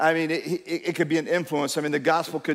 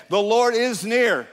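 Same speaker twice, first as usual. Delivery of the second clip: slow, higher and stronger, The Lord is near; emphatic declaration; 6 semitones higher, 3 dB louder, slower than usual. Shown as a demonstration. Pastor showing the church how to declare it, slow and emphatic. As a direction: declare it like you mean it. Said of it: "You need to say that to yourself".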